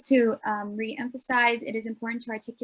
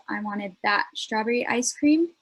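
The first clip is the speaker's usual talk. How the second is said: cream stressed with a rise at the end; "cream" stressed, rising. Shown as a demonstration. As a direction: lift and lean on "cream". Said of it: "emphasizing different words can change the focus".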